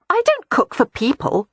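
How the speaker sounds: cheerful. A narrator's reading. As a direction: toss it off breezily. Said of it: "Beatrix said cheerfully".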